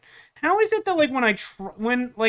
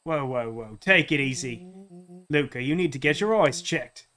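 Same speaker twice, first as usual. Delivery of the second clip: grown-up Rollo; 3 semitones lower than usual. Acted. Rollo convincing Luca who he is, low placating voice. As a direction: lower accented voice, placating.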